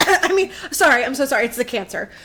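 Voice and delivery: hammed-up sickly excuse; put-on cough. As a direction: fake cough into a mock apology. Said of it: "She probably coughed to add on".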